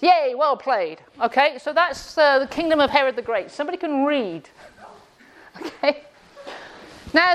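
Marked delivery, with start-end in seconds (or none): 0.0-1.0 mock-congratulating cheer; dry, sarcastic praise. Real, not acted. Teacher praising a slow class at last, sarcastic. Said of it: "Forgive me for being sarcastic".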